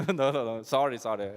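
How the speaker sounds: real laugh through the words; laughing apology. Real, not acted. Speaker laughs off the silent audience, laughing. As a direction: giggle while apologizing. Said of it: "Let's laugh".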